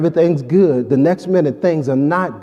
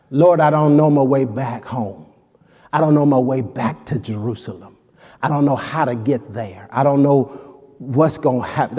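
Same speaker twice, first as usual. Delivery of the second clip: tearful prayer; 3 semitones lower than usual. Acted. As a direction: pray as one who cannot find home. Voicing a lost tearful prayer.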